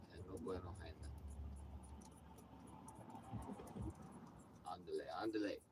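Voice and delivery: a joking bit of broken Spanish; mock Spanish. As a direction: play to the Spanish-speaking audience. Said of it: "That's for my Spanish speaking audience".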